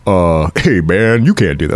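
a hint of an indignant patron; mock objection. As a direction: play the offended guy in the crowd, hammed-up. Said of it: "the black guys are like".

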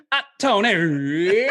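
slow drawn-out call with a laugh; from another room. Retold or imitated. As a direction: stretch the name out across the house. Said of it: "But now I go like".

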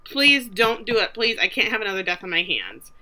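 half-acted tearful begging; mock tearful pleading. Woman begging a man off the cliff edge, mock tearful. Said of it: "let's throw in some tears".

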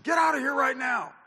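high, loud shout ordering them out; angry order. Retold or imitated. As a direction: throw him out of the building with a shout. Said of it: "and I said".

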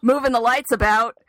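busy yourself in a panic; hiding on the catwalk from the sister; 1 frantic excuse. Retold or imitated. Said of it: "just like".

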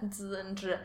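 z and zhi said softly; Chinese z and zhi. Shown as a demonstration. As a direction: echo z and zhi. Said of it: "the difference between sh and s".

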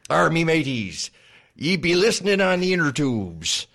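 loud hearty pirate voice. Acted. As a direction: hail the listeners like a pirate captain. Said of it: "our pirate voices".

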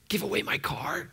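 mildly panicked, incredulous question; a touch of mock alarm. Preacher voicing a listener asked for their car, mild mock panic. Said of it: "would panic seize your life?".

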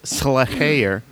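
SLAYER drawn out with a breathy break; exaggerated pronunciation. Recalling the band's video, the band name slowly over-pronounced. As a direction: stretch the band name into "Sluh-hay-er". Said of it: "when you scream the band name".

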